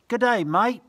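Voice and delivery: loud, high Aussie greeting; calling out. Acted. Family in the book calling out a greeting, loud. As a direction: call it out cheerfully across the yard. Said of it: "and call out".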